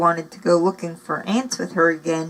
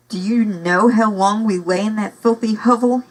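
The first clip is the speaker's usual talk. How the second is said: snarling; 3 semitones higher, 4 dB louder than usual. Acted. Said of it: "he snarled at Maggie".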